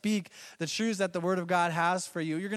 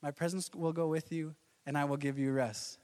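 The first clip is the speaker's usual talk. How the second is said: God's calm reply; 2 semitones lower, 5 dB quieter than usual. Retold or imitated. God calmly repeating his promise to Moses. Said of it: "imagine Moses".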